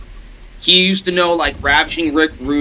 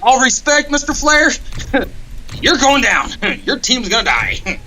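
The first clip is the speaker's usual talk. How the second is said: higher, laughing playful taunt; mock challenge; 10 semitones higher, slower than usual. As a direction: taunt a legend with a grin. Mock challenge to Ric Flair.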